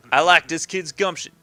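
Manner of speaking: lightly voiced New York mobster, approving; a hint of wise-guy New York accent; mob boss. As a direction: play an easygoing crime boss sizing someone up.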